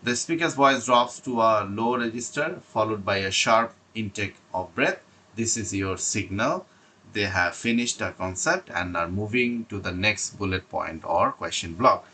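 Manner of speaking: slow, deliberate reading of prepared notes; slow read-aloud. Acted. Teacher reading exam tips to students, slow and deliberate. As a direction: read each phrase out carefully, like a script.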